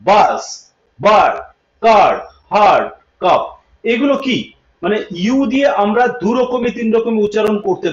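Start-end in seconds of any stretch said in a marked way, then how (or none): 0.0-3.4 বাস, বার্ড with an open 'a'; spaced list, stretched 'a' in কার্ড; 'a' sound demo. Shown as a demonstration. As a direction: model কাপ with a clear open 'a'. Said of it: "আও হয়".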